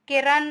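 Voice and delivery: किरण said very slowly, each sound stretched; slow example word. Shown as a demonstration. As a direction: drag out किरण for the class. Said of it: "तो छोटी की मात्रा शब्द". (किरण को बहुत धीरे खींचकर बोलना)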